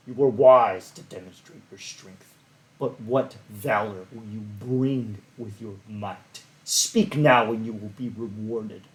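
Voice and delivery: silky, authoritative god voice; Clancy Brown rumbling voice. Acted. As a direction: speak as a commanding deity. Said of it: "You hear a rumbling voice, silky but authoritative. Think, like, Clancy Brown".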